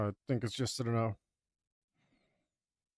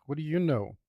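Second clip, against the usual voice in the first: higher and louder taunt; mock challenge; 5 semitones higher, 4 dB louder than usual. Teasing the absent kid, loud mock challenge. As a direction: throw What do you know at him.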